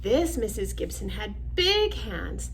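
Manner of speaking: measured storybook narration; reading to children. Acted. Reading picture book aloud.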